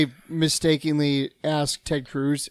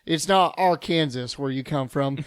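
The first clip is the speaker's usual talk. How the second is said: lightly voiced scolding Texan; mock Texan lecture. Lecturing the caller on saying Texas, mock indignant. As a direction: correct him like a proud Texan. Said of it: "I was like".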